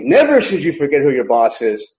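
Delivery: implied warning. Shown as a demonstration. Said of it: "there's an implied warning".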